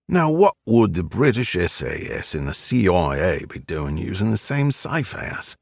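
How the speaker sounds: put-on old East End Cockney voice; gruff old Londoner, Cockney; Cockney accent. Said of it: "with an East End Cockney accent".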